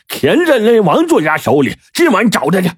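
high, forceful growl; angry roar. A narrator's reading. Boss angrily declares they'll find the writer tonight. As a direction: snarl out the plan. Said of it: "金大牙怒吼了一声".

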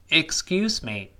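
slow model reading. Shown as a demonstration. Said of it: "再来一遍".

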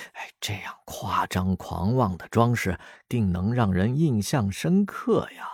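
mock praise, dropping to a sly whisper; teasing mockery. Friend mocking her café decorating idea with sly teasing. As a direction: tease her with fake compliments. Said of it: "石龙调侃地说道".

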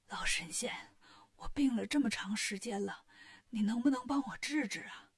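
mildly weak, entreating royal voice; pleading king. Acted. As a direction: beg the old immortal humbly, starting hushed. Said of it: "国王请求寿星".

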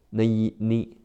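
"呢一呢" with the vowel like the name of the letter A; correct nu sound. Shown as a demonstration. Teacher showing the right vowel in minute: nu as ni. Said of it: "注意字母U发A的音".

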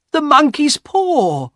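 high, drawn-out exclamation; excited cry. A narrator's reading. Wife wakes husband with her idea, excited cry. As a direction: cry out each word, pitch soaring. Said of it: "she cried".

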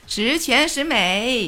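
十全十美 said slowly in Cantonese tones; Cantonese pronunciation. Shown as a demonstration. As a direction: demo 十全十美 in clear Cantonese. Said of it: "示范一遍吧".

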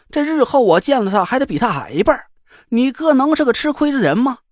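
high, nonstop bragging patter; motor-mouth chatter. Acted. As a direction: rattle it off like a machine gun. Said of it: "机关枪一样的叨叨叨叨".

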